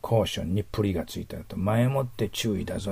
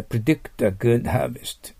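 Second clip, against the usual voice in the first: slow model reading; 3 semitones higher, much slower than usual. Shown as a demonstration. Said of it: "teacher models English phrase".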